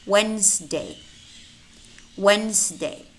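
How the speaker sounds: Wednesday as "Wenzday"; silent D. Shown as a demonstration. Teacher models silent letters for learners, silent D in Wednesday. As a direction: drop the first D in Wednesday. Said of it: "but it's silent".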